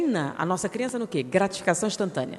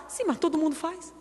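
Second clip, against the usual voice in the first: mock shrugging excuse; 7 semitones higher than usual. Man brushing off objection.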